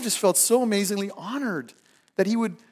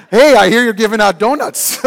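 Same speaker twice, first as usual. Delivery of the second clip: God dropping by; 5 semitones higher, 14 dB louder than usual. Retold or imitated. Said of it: "God walks into your cubicle".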